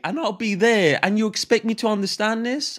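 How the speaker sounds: hammed-up outrage as a clueless foreigner; mock confused newcomer. Acting bewildered newcomer.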